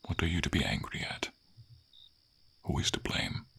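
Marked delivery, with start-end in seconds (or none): 2.6-3.5 gentle question. Acted. Dragon calming the angry knight, gentle question.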